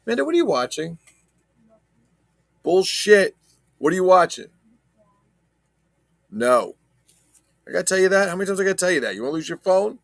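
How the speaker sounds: loud, high-pitched parent yelling across the room; scolding shout. Real, not acted. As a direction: parent shouting at daughter Amanda about her phone. Scolding daughter over phone.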